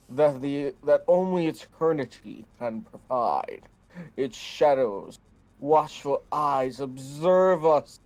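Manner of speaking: grand, dramatic recital; theatrical voice. Acted. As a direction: read it like a stage diva. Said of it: "I had to do theatrical voice".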